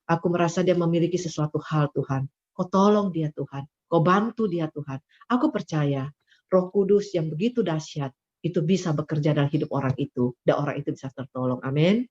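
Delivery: quiet prayer. Acted. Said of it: "waktu masuk kamar doa".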